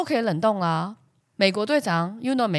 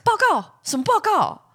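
startled question; 13 semitones higher, 5 dB louder, slower than usual. Retold or imitated. Surprised reply to counselor's call.

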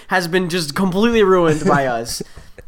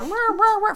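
wordless high, subdued "wah wah"; imitated muffled arguing; 4 dB quieter than usual. Imitating dad and sister arguing through walls, wordless squabble. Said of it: "I would hear, like".

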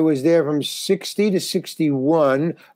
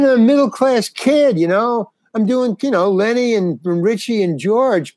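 retold indignant whine, pitched higher; indignant complaint; 6 semitones higher than usual. Calling manager Jack from the road, indignant and high. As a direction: whine it, aggrieved.

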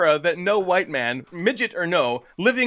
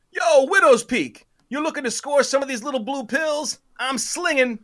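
stoner drawl; 10 semitones higher than usual. Acted. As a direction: hawk pills like a burned-out old dealer. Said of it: "washed-out stoner drawl".

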